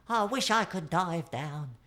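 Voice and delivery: a penguin longing to help; Penguin wishing. A narrator's reading. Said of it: "said Penguin".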